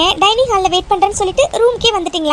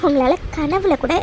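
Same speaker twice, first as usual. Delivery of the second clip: tender reassurance; 5 semitones lower than usual. Acted. Wife reassuring worried husband.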